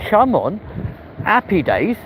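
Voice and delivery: high, triumphant come on; cheering. Retold or imitated. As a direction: celebrate the win. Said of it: "And I'm like".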